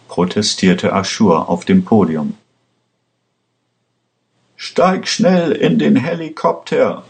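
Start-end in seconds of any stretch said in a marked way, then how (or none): 4.5-7.0 urgent shout. A narrator's reading. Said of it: "schrie Paul Aschurs Vater zu".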